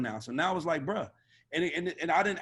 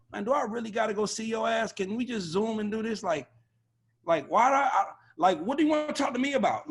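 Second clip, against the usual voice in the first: higher-pitched, put-upon questioning; mock exasperation; 5 semitones higher than usual. A&R balking at meeting in person, mock exasperated. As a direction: voice a mildly exasperated complaint about pointless meetings. Voices reluctance to meet in person.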